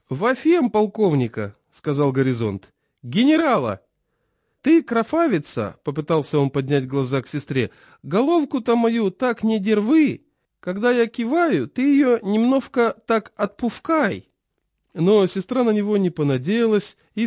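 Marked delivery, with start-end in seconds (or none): 0.1-1.5 put-on high, slow lisping old man; toothless old man. A narrator's reading. Chairman voiced. 3.0-3.8 put-on toothless old man. A narrator's reading. Chairman voiced. 4.6-5.8 put-on toothless old man. A narrator's reading. Chairman voiced. 8.0-14.3 put-on high, slow lisping old man; toothless old man. A narrator's reading. Chairman voiced.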